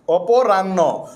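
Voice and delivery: অপরাহ্ন stretched very slowly, long final vowel; pronunciation demo. Shown as a demonstration. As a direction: drag out অপরাহ্ন for the students. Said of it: "এই যে অপরাহ্ন".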